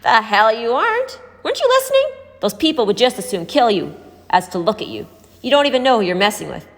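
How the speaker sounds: slap down her plan hard; rising to a shocked high burst; harsh rebuke. A narrator's reading. Angry rebuke of Raven.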